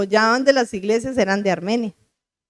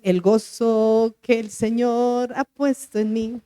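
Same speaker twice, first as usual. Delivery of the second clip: declaring; slower than usual. Retold or imitated. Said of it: "Y yo empecé a decir".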